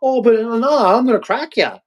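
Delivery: high-pitched, angry threat; threatening inner voice. Acted. Brain punching down the sad thing, threatening. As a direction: threaten like a brain bullying itself. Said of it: "that's what my brain's thinking".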